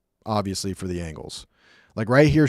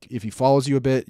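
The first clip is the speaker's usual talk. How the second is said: ordinary talk, nothing marked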